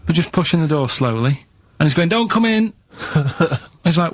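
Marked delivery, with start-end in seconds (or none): 2.1-2.7 shouted warning. Retold or imitated. Plumber shouting from behind door.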